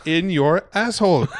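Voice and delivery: high, slow hammed-up French accent. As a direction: camp it up in a mock French accent. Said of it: "talking in a French accent".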